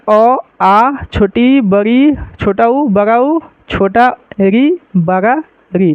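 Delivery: each vowel named slowly, one at a time; slow vowel recitation. Shown as a demonstration. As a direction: recite the vowels deliberately, spaced out. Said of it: "देख लीजिए".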